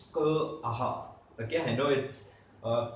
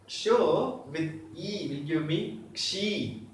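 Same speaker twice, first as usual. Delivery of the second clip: slow repeat for learners; slower than usual. Shown as a demonstration.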